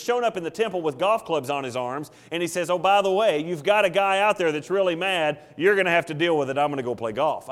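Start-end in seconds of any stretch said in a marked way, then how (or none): 2.7-7.5 nonchalant. Pretend. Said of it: "that's really the attitude he has here".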